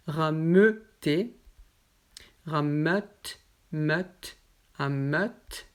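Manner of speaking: "Rameuter" read slowly, each word spaced for repetition; word list drill. Shown as a demonstration. Teacher reading the eu word list to students. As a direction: pronounce "meute" clearly with the eu sound. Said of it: "motif E U S qui est ouvert".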